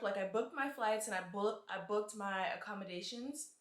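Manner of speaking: speaking around a retainer in the mouth; words slightly thick from retainers; wearing a retainer. Real, not acted. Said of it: "It's so hard to talk with my retainers in".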